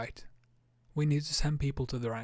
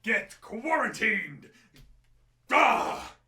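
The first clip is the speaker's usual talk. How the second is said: a lightly voiced frantic lady, higher, some words slow; mock panic, shooing the kid away; hysterical lady; 5 semitones higher than usual. Entitled mother yelling at the kid.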